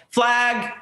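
put-on light Eastern European accent on "Flag"; a hint of an Eastern European accent. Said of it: "but in an Eastern European accent".

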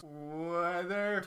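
imitated coworker stretching the word; drawn-out catchword. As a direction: echo the catchphrase, held long. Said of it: "Ron stops and goes".

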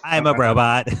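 stiff mechanical robot delivery. Pretend. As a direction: say it like a machine. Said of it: "I gotta turn into a robot".

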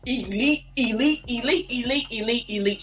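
a light mock of a boastful commentator, repeating elite; mocking impression. Mocking the US pundit, a lightly voiced smug chant. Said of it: "he tried to say".

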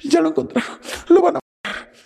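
high-pitched frightened wail; a mimicked cry of dread for a boyfriend; imitating panicked friend.

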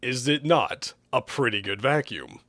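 measured, drawn-out persuasion; slow down to coax him round; deliberate, stretched-out appeal; asked slowly. Acted. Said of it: "Hugh asked slowly".

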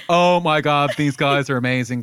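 put-on gushing teen girl voice; teenage girl impression. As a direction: squeal it like an excited teenager. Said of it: "that's my teenage girl impression".

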